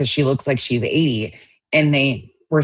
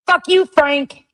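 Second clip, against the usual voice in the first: high-pitched hammed-up yell, spitting out Frank; mock yell at Frank; 12 semitones higher, 3 dB louder, slower than usual. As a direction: pretend to scream at Frank just to copy Queen's energy. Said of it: "I'm trying to give Queen Bee energy".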